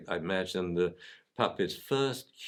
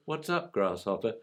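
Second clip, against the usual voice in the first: lightly voiced London sensei. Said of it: "He says".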